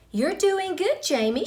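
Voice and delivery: a hint of a coaxing lunch teacher; teacher's encouragement. A narrator's reading. Teacher voiced in the story.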